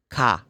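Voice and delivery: "Ka" with an open ah and no r; open British R. Shown as a demonstration. Teacher models British car for learners, open ah. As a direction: drop the r, leave "Ka" open. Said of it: "No, it's open".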